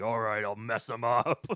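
slow, put-on tough guy; mock Hercules voice. Imitating a giant Hercules talking tough. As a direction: drawl it like a dumb strongman.

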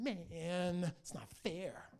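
mild sulky whine, falling away; mock whine. Enemy walking away from God, whining sulkily. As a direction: grumble in defeat with a stretched first word. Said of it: "he whines to God".

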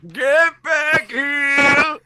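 drawn-out furious yell. Acted. Vulture bellowing after the fleeing Peter. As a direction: stretch every word out in fury.

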